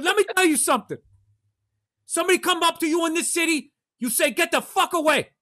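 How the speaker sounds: put-on high, lecturing Asian accent; heavy Asian accent. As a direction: school the newcomer as an Asian-accented cabbie. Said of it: "but a heavy accent".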